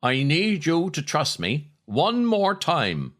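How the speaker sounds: put-on a film hero's line in a thick Cork accent; strong Cork accent. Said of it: "in his strong Cork accent".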